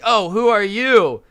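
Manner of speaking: high, loud, drawn-out Karen retort; imitated indignant challenge. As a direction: confront a stranger who is laughing. Karen challenges laughing stranger.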